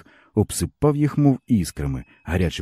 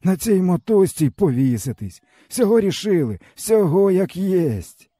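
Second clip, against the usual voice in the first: higher, bitter village man's voice; weary peasant man; 12 semitones higher, slower than usual. A narrator's reading. Stepan tells the boy his woes, bitterly. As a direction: speak as a broken old peasant.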